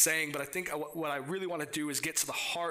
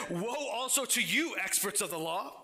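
earnest, lifted Bible reading; scripture reading. Acted. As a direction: read the woes with rising urgency. Reads scripture passage.

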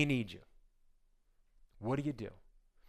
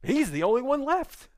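angry father Jacob; 4 semitones higher than usual. Acted. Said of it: "he goes".

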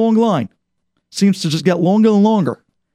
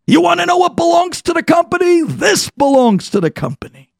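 rising bitter protest, peaking very high; outraged; 5 semitones higher than usual. Retold or imitated. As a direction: hurl it at the guard who checks your box. Manager's outraged tirade at guard.

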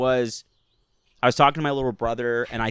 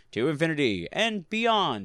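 higher, lightly mimicked action-figure voice; generic toy catchphrase; 4 semitones higher than usual. Toy collector mocks generic action figures, catchphrase voice. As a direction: recite it like a talking toy. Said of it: "some generic voice ... says the, the catchphrase".

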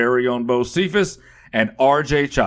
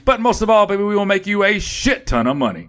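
hype pitch; 5 semitones higher, faster than usual. Acted. Hype promo line to audience.

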